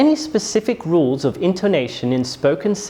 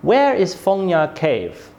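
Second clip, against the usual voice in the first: slow, "Where" strong, "Cave" falling; falling question intonation. Shown as a demonstration. Teacher demonstrates a W H question, falling tone on "Cave". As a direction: start firmly on "Where", drop on "Cave". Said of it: "my voice falls".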